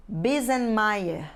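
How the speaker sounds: Bisenmeier said slowly as "bee-zen-MY-eh"; pronunciation demo. Shown as a demonstration. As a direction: model "Bisenmeier" slowly and clearly for pupils. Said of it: "O nome do meio nós lemos assim".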